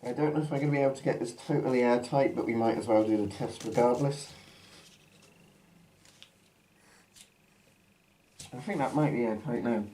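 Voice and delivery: muffled behind a gas mask; talking through a mask. Real, not acted. Mask put on at line 40.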